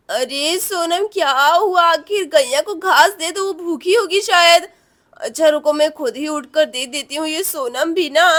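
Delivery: a hint of a mother woken up; drowsy mother. Sleepy mother voiced by narrator. (नींद में माँ की हल्की आवाज़)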